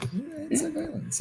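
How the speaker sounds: high squeaky cartoon voice. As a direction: pitch it up into a squeak. Squeaky put-on voice.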